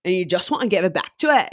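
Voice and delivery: put-on thick Irish accent. Shown as a demonstration. Fan wants to give the accent back, attempted thick Irish accent. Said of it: "it's a thick accent".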